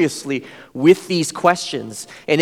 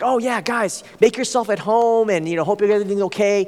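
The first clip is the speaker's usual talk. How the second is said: welcoming host; 4 semitones higher than usual. Retold or imitated. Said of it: "he's like".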